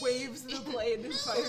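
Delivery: bleating like a goat; high, loud, slow bleating goat. Acted. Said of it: "She has the goat voice still".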